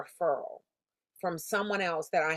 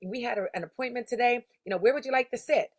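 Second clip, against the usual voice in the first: higher, upbeat rehearsed greeting to a client; rehearsed sales greeting; 5 semitones higher than usual. Shown as a demonstration. Rehearsing her greeting to the client on the street, eager and higher. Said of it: "Like, I'm practicing this".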